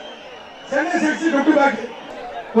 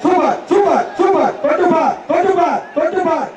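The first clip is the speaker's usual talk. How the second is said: excited cheering; 3 semitones higher than usual. Real, not acted. Announcer cheering the bull.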